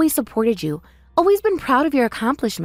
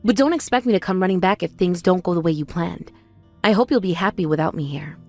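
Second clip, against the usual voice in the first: resigned hurt; 4 semitones lower than usual. Acted. Sister gives up, leaving.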